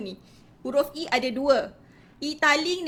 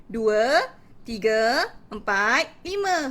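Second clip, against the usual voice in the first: teacher counting aloud; much slower than usual. Shown as a demonstration. Teacher asking child to count five, slow sing-song counting. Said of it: "Tanya anak kan".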